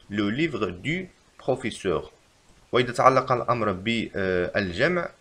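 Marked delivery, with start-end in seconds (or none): 0.1-2.1 very slow, in one go; slow repeat. Shown as a demonstration. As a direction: repeat it slowly. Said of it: "يجب كتابة".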